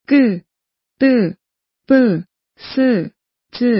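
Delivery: กึ ตึ ปึ ซึ จึ with hard, tensed onsets; heavy tense consonants. Shown as a demonstration. Teacher demonstrating heavy consonants กึ ตึ ปึ ซึ จึ, tense onsets. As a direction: press กึ ตึ ปึ ซึ จึ out from the throat, no puff. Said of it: "มีเสียงหนัก".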